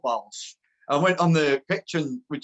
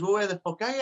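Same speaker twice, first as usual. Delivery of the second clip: lightly imitated caller, pitched up; Jimmy Bullard; 6 semitones higher, faster than usual. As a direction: repeat the phone demand in a higher voice. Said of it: "this voice on phone".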